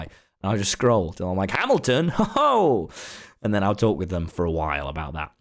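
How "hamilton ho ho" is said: high, gleeful "Hamilton?" breaking into a laugh; thrilled high-pitched discovery, laughing; excited squeal. Retold or imitated. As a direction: squeal with delight at the find. Excited reaction spotting Hamilton playlist.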